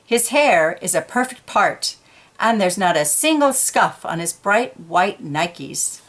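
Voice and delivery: put-on animated storyteller voice for young listeners; reading to children. A narrator's reading. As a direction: read it like a picture book to kids. Reading picture book aloud.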